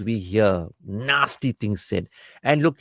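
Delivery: ordinary talk, nothing marked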